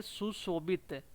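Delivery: सुशोभित said slowly; drawn-out सुशोभित; careful pronunciation. Shown as a demonstration. Teacher stressing an important exam word slowly. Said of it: "ये भी important है".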